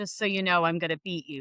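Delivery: put-on whisper. Retelling what the other speaker whispered before the race: imitating a whisper. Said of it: "you whispered into my ear".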